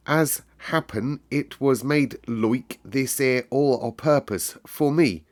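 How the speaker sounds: dreamy carefulness. Acted. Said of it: "with dreamy carefulness".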